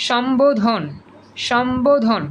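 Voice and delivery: সম্বোধন with a clear b after m; correct pronunciation. Shown as a demonstration. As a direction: say সম্বোধন as shom-bo-dhon. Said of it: "আমরা এটা উচ্চারণ করতে গিয়ে".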